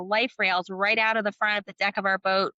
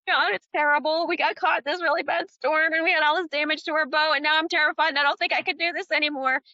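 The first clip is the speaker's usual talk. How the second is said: retold distress; 6 semitones higher than usual. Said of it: "I'm like".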